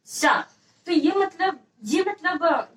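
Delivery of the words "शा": सा said alone as palatal "sha"; palatal sibilant demo. Shown as a demonstration. Teacher has students pronounce it, सा as palatal "sha". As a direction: sound out सा from the palate. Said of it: "ये सा का उच्चारण करिए".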